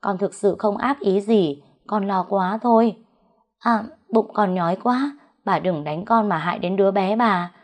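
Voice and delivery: put-on understated tearful servant girl; tearful pleading. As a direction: beg for mercy with a touch of crying. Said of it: "Nó bị bà đánh thì khóc lóc nói".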